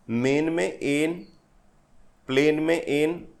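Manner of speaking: measured 'मेन में एन, प्लेन में एन', picking out the shared 'एन'; vowel sound demo. Shown as a demonstration. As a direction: isolate 'एन' after each word, with a pause between. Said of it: "ये repetition of the vowel sound है". ('मेन' और 'प्लेन' में 'एन' ध्वनि अलग से दिखाते हुए)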